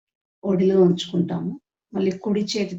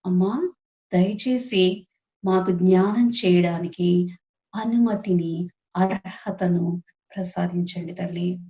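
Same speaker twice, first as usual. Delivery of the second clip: slow, measured prayer with pauses between phrases; guided prayer. Acted. Meditation leader asking the Mother's permission to meditate, prayerful. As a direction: lead the group in unhurried supplication.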